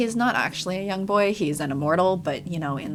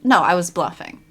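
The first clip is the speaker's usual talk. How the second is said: smug reveal; 12 dB louder than usual. Retold or imitated. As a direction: announce the bluff with glee. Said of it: "he's like".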